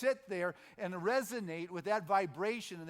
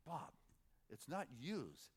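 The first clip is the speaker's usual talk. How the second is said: correcting mom; 4 semitones lower, 10 dB quieter, slower than usual. Retold or imitated. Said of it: "one of his neighbors' moms would say".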